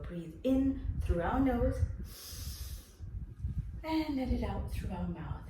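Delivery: calm, slow breathing cue; slow breathing guide. Shown as a demonstration. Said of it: "breathe in, let it out".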